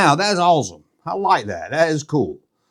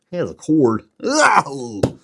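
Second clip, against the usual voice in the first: a hammed-up sob over the cord; mock crying; 2 semitones lower, much slower than usual. Mourning that the remote R2-D2 has a cord, mock crying. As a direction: pretend to weep in disappointment. Disappointed by corded remote toy.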